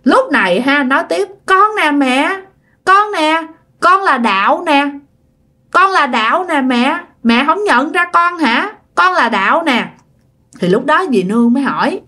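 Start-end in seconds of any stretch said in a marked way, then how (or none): 1.5-9.9 put-on higher childlike pleading; a little ghost child begging to be recognized. Ghost child Đạo pleading with his mother, childlike voice. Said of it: "cái giọng con nít như vậy á".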